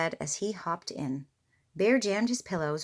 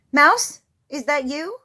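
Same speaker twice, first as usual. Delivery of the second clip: higher, louder, slow anxious call; nervous call; 7 semitones higher, 10 dB louder than usual. A narrator's reading. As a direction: call into the dark, uneasy. Bear nervous in dark.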